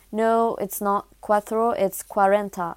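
put-on slow, amateur Spanish accent on the numbers. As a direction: correct them slowly with schoolroom Spanish. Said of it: "jugez pas mon accent espagnol".

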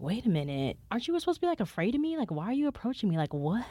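high, rising disbelief at a fearless raccoon; confused disbelief. Retold or imitated. To the approaching raccoon, high confused disbelief. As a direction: squeak out the questions in disbelief. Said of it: "And I was just like".

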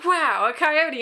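slow, high, loud wow; retold wide-eyed wonder, stretched out; awed amazement. Friend retelling seeing a coyote weeks ago, amazed. Acts her amazed sighting.

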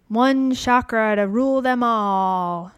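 slow, drawn-out mock-grand line; mock-epic proclamation. Podcaster playfully crowning the top chakra, mock-epic. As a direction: intone it like a playful fantasy prophecy.

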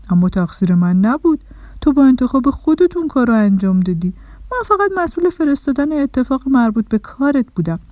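lightly voiced Mr Result, self-defending; a hint of an emphatic, busy official; explaining little man. Mr Result answers upset Dorna, lightly voiced and emphatic.

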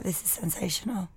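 dry, flat gushing; dry mock praise; deadpan praise. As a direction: say it with no enthusiasm at all. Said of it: "I was so, like, dry".

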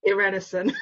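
Irenesen said ih-REN-uh-sen; short-i pronunciation. Shown as a demonstration. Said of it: "that's the right way".

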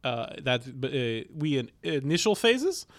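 put-on comic Russian accent. Shown as a demonstration. Guest introduces himself as the flatmate, mock Russian accent. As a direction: play a comrade in mock Russian. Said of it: "Russian accent".

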